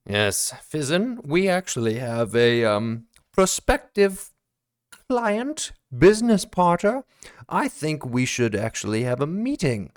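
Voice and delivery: cagey Stark. Acted. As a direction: drop a hint to Fizzin.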